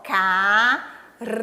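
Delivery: "Caranguejo" as four isolated syllables, long pauses between. Shown as a demonstration. Teacher checking the count of four, "Caranguejo" in separated syllables. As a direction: say "Caranguejo" one syllable at a time, ca, ran, gue, jo. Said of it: "Quatro sílabas".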